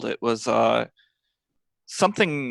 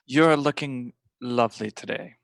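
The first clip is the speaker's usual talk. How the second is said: lightly attempted French accent. Grimly posing as Jean-Pierre to say something nice, failed French accent. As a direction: have a half-successful go at a French accent. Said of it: "I can't do the accent".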